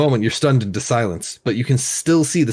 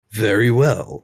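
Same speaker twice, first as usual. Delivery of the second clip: grand languid royal commands; slower than usual. Acted. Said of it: "says the Sultan".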